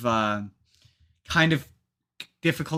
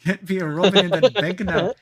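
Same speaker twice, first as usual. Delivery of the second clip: lightly Irish echo; 4 semitones higher than usual. Pretend. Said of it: "echoing the Irish Batman".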